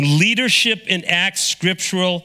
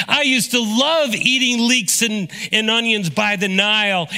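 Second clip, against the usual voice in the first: whiny complaining Israelite, pitched higher; mock grumbling at Moses; 4 semitones higher than usual. Preacher voicing Israelites grumbling at Moses, whiny. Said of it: "people of Israel complained against Moses".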